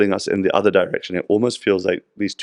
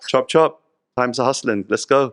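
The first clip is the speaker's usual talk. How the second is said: Narad Muni returns; 4 semitones higher than usual. Retold or imitated. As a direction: chivvy him along cheerfully. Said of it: "And he says".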